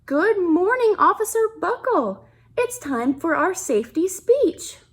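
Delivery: bright, lifted principal's greeting; eager principal. Acted. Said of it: "the principal ... phoned".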